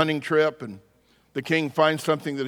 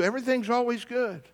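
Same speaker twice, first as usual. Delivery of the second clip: very high-pitched, incredulous complaint; mock exasperation; 8 semitones higher than usual. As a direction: play a king fed up with relentless cheer. Acted king exasperated with servant's positivity.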